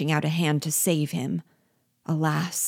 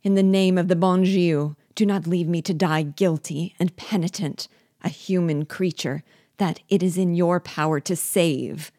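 broken with fear; 2 semitones higher, 3 dB louder than usual. Acted. Hanging dwarf begs his master for rescue, fearful. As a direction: beg for your life from the abyss. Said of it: "in a voice broken with fear".

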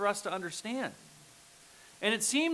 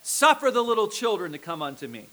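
raised voice, mildly indignant; loud, indignant Jesus; 5 dB louder than usual. Acted. Jesus rebuking his disciples, in a raised voice. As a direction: proclaim it loudly and firmly. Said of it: "I imagine in a really loud voice".

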